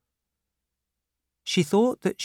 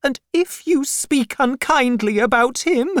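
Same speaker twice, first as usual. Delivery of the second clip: angry; 13 semitones higher, 6 dB louder than usual. Acted. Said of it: "said my mother angrily".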